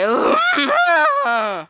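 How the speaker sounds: very high, drawn-out squeal of frustration; mock wail. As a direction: imitate a thwarted customer's shrill whine. Customer's wail on being told to leave.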